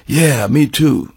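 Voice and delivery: slow, laid-back imitation of a Texas bluesman; a hint of the musician's unhurried way of talking; imitation of a rock guitarist. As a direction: draw the words out lazily, lightly imitating him. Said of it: "that's the way he talks".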